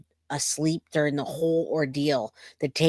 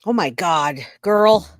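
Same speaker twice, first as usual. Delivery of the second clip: shocked reaction; 6 dB louder, slower than usual. Real, not acted. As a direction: react in shock to what you just heard. Reacting to the played recording.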